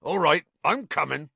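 grudging call to those waiting; rough-and-ready acted character; gruff giant. A narrator's reading. Hagrid grudgingly agrees to leave.

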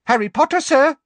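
high squeaky elf cry; shrill little elf calling out; squeaky house elf. Acted.

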